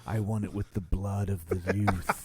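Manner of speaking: low evil villain voice; sinister, hushed villain demand; unhinged villain. Pretend. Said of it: "my evil voice".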